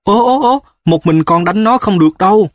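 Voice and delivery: high-pitched gasps of alarmed astonishment; astonished. A narrator's reading. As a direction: start very high, protest in amazement. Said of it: "Mẹ Núp kinh ngạc". (kinh ngạc thốt lên, giọng vút cao)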